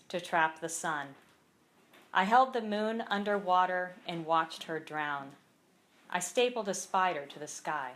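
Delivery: measured poem recital with pauses between lines; poem read aloud at a live reading; poetry reading. Acted. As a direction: read each line deliberately, letting it land. Reads own poem aloud.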